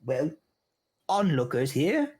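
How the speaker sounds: high, curt gnome voice; irritated gnome elder. Acted. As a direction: brush off the story impatiently. Gnome voice continues.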